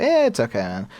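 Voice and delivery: pat him on the back with your voice; chirpy it's-fine voice; mock consoling. Consoling a teammate after a game.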